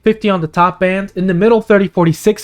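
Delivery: strained, tiring voice; losing voice. Real, not acted. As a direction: voice starting to go hoarse. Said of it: "I'm beginning to lose my voice".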